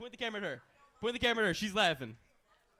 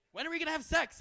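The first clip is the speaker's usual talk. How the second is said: put-on girlfriend's whiny question; 8 semitones higher, faster than usual. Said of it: "she's like".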